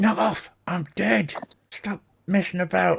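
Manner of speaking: whispering out the side of mouth. Speaker retells what a man lying still said, whispering out the side of his mouth. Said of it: "he whispers like out the side of his mouth".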